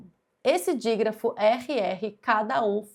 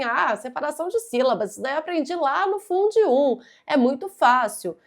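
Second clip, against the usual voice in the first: quick, higher, dismissive student voice; mock careless student; 4 semitones higher, 3 dB louder, faster than usual. Teacher imitates an overconfident student brushing off the topic. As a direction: rattle it off like it's too easy. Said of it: "porque fala assim".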